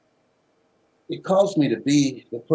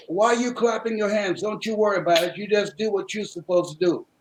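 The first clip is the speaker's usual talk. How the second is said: a hint of a firm mother shushing; lightly voiced, stern mama; hushing mother; 8 semitones higher than usual. Mother hushing her curious son, lightly voiced firm.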